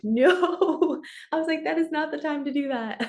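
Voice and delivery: high, firm refusal; emphatic no. Retold or imitated. Coach telling a client to back off, high and emphatic. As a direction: shut the idea down, high and insistent. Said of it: "And I was like".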